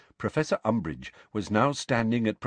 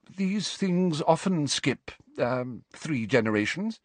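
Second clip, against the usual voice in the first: mystic seer voice; 7 semitones higher, slower than usual. A narrator's reading. Trelawney defending herself.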